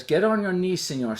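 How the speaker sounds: lightly imitated command in broken English; broken English order, falling away at the end. Soldier orders passenger to kneel, in broken English. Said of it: "he talks in broken English".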